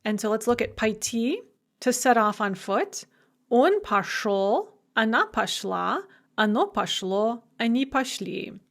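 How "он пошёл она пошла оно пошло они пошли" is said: пошёл, пошла, пошло, пошли each hit on the last syllable; final-syllable stress in пошёл, пошла, пошло, пошли; end stress. Shown as a demonstration. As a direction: recite пошёл to пошли, punching every ending. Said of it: "you tend to get end stress".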